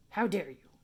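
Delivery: lightly voiced outraged dog, loud at first; indignant guard dog. Territorial dog rebuking a passerby, indignant. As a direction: scold the intruder as a territorial dog. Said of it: "That's what he's like".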